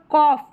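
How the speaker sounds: कॉफ ending in "off"; कॉफ, open "o" and final f; OUGH as "off". Shown as a demonstration. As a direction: say कॉफ with GH sounded as f. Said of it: "तो ऑफ करके".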